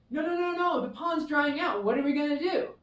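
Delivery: high, alarmed pond creatures crying out; panicked animals. Acted. Pond animals to each other as their pond dries up, in high alarm. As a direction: fret aloud as the water vanishes.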